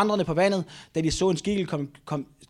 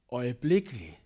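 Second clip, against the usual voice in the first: "øjeblikkeligt" lower, set apart by a pause; emphatic; 4 semitones lower, 3 dB quieter than usual. Acted. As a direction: drop down and weigh "øjeblikkeligt". Acting Peter, dramatic key word.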